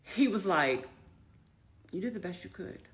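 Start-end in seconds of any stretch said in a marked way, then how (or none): 1.9-2.8 soft, hushed reassurance; retold gentle consolation. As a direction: quote him consoling you, quietly. Client comforting her after the verdict.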